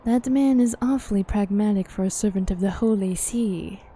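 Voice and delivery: measured, formal fantasy character reading; game dialogue read-aloud. Acted. Character weighing up the myth of Shiva, formal dialogue reading.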